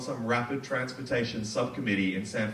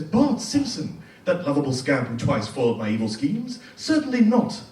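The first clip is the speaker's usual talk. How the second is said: mock Sideshow Bob; 5 dB louder than usual. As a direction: play the villain innocently dismissing it. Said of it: "And he says".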